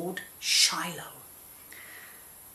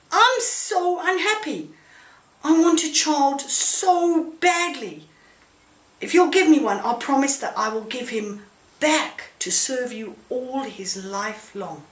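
begging God; 5 semitones higher, 3 dB louder than usual. Acted. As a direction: plead for a child, then trail off in a promise. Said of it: "she begged".

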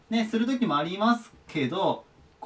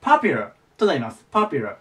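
popular with the weight on "pa", not "po"; stress on the first syllable; 4 semitones lower than usual. Shown as a demonstration. Teacher showing where popular's accent falls, first syllable stressed. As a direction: hit the opening "pa" of popular. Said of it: "アクセントここですね".

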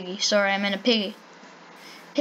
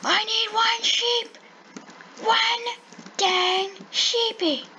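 whiny frustration; 10 semitones higher, slower than usual. Real, not acted. Frustrated, can't find a sheep.

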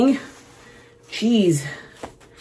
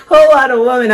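loud belted lyric; 4 semitones higher, 7 dB louder, faster than usual. Acted. Belting the lyric proudly.

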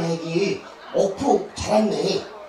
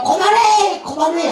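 imitating sister-in-law; 7 semitones higher than usual. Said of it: "밑에서 형수가".

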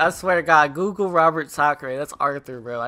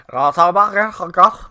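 loud laughing talk; 8 dB louder, much faster than usual. Real, not acted. Laughing loudly after impression.

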